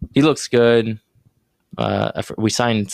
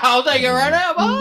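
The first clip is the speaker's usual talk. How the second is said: high-pitched laughing acceptance. Real, not acted. Host snapping up a friend's Bears bet, laughing. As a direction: jump on the bet through laughter.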